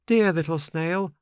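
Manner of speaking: high-pitched puppet calling up. A narrator's reading. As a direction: call up from the street, pleading. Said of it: "cried Pinocchio from the street".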